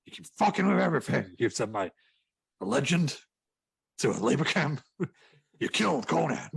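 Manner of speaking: hammed-up boss losing it, pitch climbing; exasperated Vince McMahon. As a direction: rant in mock outrage. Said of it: "he's lost it with Kim Jong-un".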